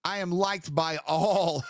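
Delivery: mock grandiose. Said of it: "can't even keep a straight face".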